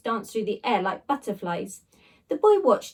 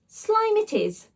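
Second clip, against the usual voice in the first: grand slime voice; 11 semitones higher, slower than usual. Acted. Slime accepts name.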